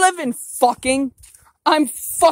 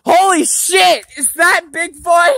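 shocked; 4 semitones higher, 3 dB louder than usual. Real, not acted. Sees Bigfoot in woods.

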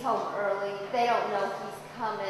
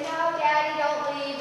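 put-on begging child; 4 semitones higher than usual. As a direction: whine it like a clinging kid. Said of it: "the kids say".

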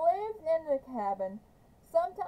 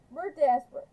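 urgent plea; 7 dB louder, faster than usual. Acted. Linda pleading with Kate.

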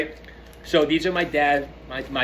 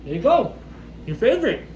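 much higher, sweet coaxing pet talk; 11 semitones higher, 4 dB quieter than usual. Real, not acted. Owner handing the cat her favorite wrapper, high cooing pet talk.

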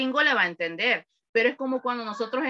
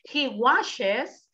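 slow, careful He washes the car on Sunday; slow correct model reading; 3 semitones lower, much slower than usual. Shown as a demonstration. Teacher correcting a student, reading slowly. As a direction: spell out washes slowly and clearly.

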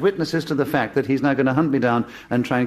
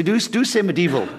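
dubious put-on Scottish accent; attempted Scottish accent; 3 semitones higher than usual. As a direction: attempt a Scot and miss. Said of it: "what is that accent you're doing".

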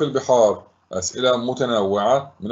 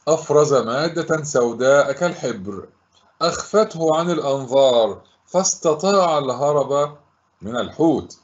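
phrase by phrase with pauses; measured model answer. Shown as a demonstration. Teacher giving pupils the answer to recall, measured and deliberate. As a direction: deliver it deliberately, piece by piece.

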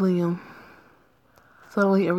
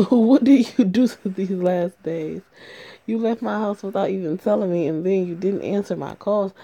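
yelling at her; 5 dB louder than usual. Acted. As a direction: demand answers, loud and fed up. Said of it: "Please don't yell at me".

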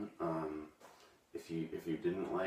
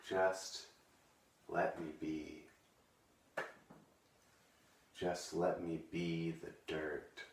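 a hushed, hammed-up choke toward the end; fading emotional plea; 5 dB quieter than usual. Poet at the end of his poem to viewers, fading, overcome. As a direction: let the repeated plea sink softer each time. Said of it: "I get a little emotional".

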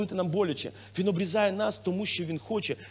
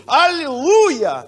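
very slow, loud, higher hallelujah; joyful hallelujah; 7 semitones higher, 10 dB louder, much slower than usual. Acted. Pastor voicing a blessed believer's joy, loud. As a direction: let the praise ring out.

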